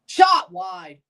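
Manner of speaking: excited. Real, not acted. Live reaction to missed shot.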